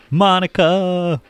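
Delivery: loud, high drawn-out call. Acted. Acting along with the movie, a loud drawn-out call. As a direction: holler the name, stretching it out.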